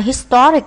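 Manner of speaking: "Historic" with its middle syllable emphasized; second-syllable stress. Shown as a demonstration. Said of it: "nhấn âm hai".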